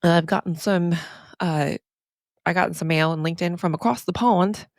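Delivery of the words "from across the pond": hammed-up attempt at an English accent; bad English accent. Podcaster mentioning mail from overseas, horrible English accent. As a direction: badly fake an English accent. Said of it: "That's a horrible English accent".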